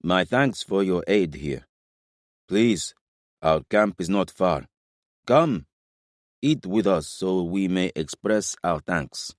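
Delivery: measured, formal royal thanks; lightly voiced king. A narrator's reading. King inviting his rescuers to camp, lightly voiced and formal. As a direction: offer thanks slowly and formally. King's voice in narrated dialogue.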